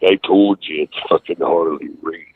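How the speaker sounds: Harley Race impression. Prank caller keeps claiming to be his trainer, Harley Race impression. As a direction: insist in a hint of the boss's voice. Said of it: "I used to call him as Harley".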